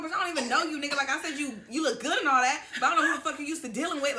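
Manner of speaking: going off. Retold or imitated. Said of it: "I'm going the fuck off".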